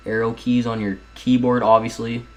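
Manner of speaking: dry, sarcastic aside. Pretend. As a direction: say it like it's obvious. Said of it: "Being sarcastic".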